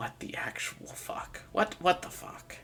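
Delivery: muttered under the breath, breathy and whispered. Voicing a character who mutters behind the listener: muttering under her breath. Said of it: "under her breath going".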